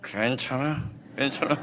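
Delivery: forced reassurance with clenched jaw; mock tight-jawed comforting; through gritted teeth. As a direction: say it holding back anger, teeth clenched. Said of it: "어금니 꽉 깨물고".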